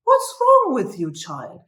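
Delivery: retold serious challenge, pitch falling steeply; serious questioning. Old lady confronting the tearful psychologist, retold as serious. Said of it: "really serious and saying".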